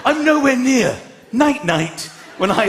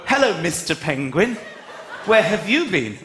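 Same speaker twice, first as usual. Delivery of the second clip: presenter to penguin; 4 semitones lower than usual. Shown as a demonstration. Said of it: "and go".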